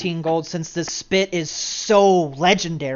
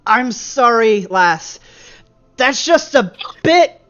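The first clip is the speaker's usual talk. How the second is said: bar patron voice; 3 semitones higher, 3 dB louder than usual. Acted. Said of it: "he just is like".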